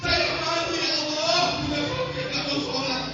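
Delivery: retold tearful prayer. Wife begging God to guide her husband, mock-tearful pleading. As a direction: chant out a wife's anguished prayer, mildly tearful. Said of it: "Tiap malam dia nangis".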